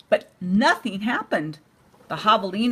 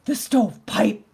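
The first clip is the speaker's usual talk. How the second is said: alarmed gasp. Acted. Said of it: "gasped the third little javelina".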